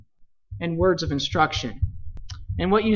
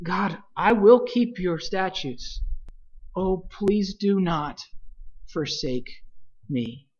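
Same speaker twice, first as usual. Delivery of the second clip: plea fading softer toward the end; a hushed, humble prayer for mercy; soft pleading prayer; 2 semitones lower, 7 dB quieter than usual. Acted. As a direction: let the plea sink to almost nothing. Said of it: "A statement of truth again into a supplication".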